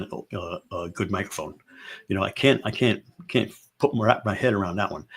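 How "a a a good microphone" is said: half-whispered aside, lower. Real, not acted. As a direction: drop to a sudden whisper. Aside about microphones.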